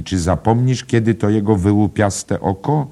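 high, loud exclaimed question; crying out. A narrator's reading. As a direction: call it out excitedly to a friend. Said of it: "zawołała panna Kennedy".

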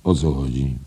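lightly hoarse character voice. A narrator's reading. Editor bursting in at the door, hoarse question. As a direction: ask it in a husky voice. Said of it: "ochrypły głos zapytał".

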